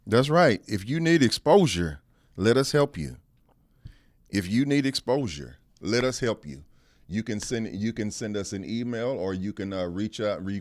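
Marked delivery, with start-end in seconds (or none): 0.1-6.6 promo shout. Acted. Host's loud promo tagline.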